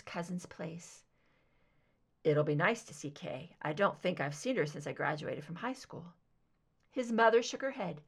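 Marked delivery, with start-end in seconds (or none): 2.2-6.1 a lower-voiced grown son, gently doubtful; lightly voiced son, cautious suggestion; Fox, the son, lower voice. Son gently questions his mother's plan, lower voice.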